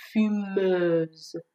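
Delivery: fumeuse with closed eu and final z; careful fumeuse, last syllable held; contrasted French ending. Shown as a demonstration. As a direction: model fumeuse, ending on a buzzing z.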